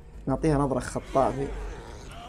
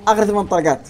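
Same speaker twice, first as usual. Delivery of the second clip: tense exclamation; 6 semitones higher, 6 dB louder than usual. Real, not acted. Counting last bullets in fight.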